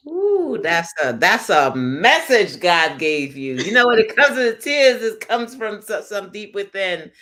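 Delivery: high, loud, slow awed praise; host deeply moved by her friend's words; moved exclamation. Real, not acted. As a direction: react with heartfelt amazement. Host moved by guest's message.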